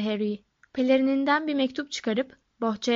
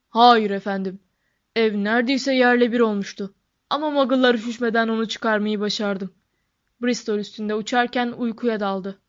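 a touch of a hearty giant, louder at first; lightly voiced giant Hagrid; 5 dB louder than usual. Giant reporting on the rescue to his professor, lightly voiced role.

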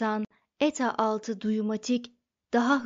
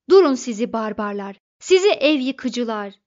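much louder, full-throated yell; yelling at the top of his lungs; 9 dB louder than usual. A narrator's reading. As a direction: scream at the demolition crew. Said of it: "avazı çıktığı kadar bağırdı". (avazı çıktığı kadar bağırış)

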